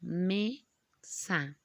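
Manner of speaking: MESA broken into two separate syllables, ME, SA, like a robot. Shown as a demonstration. Teacher shows the class the stressed syllable, MESA chopped robotically. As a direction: say MESA robot-style, one syllable at a time. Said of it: "Pronunciamos entonces como robots".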